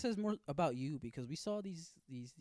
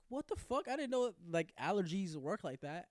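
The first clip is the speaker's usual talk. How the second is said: retold shock; 3 semitones higher than usual. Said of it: "I was like".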